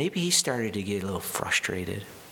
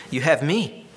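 smug husband; 4 semitones higher, 4 dB louder than usual. Retold or imitated. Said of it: "it gets worse".

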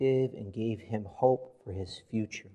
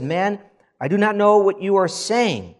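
forceful denial; 9 semitones higher, 10 dB louder than usual. A narrator's reading. Peter's third denial.

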